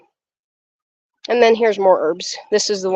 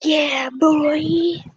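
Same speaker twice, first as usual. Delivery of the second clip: hype cheer; 8 semitones higher, 3 dB quieter than usual. Real, not acted. Cheers at patriotic decoration.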